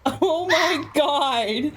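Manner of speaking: laughing, drawn out. Real, not acted. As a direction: laugh while protesting. Laughing mock suffering.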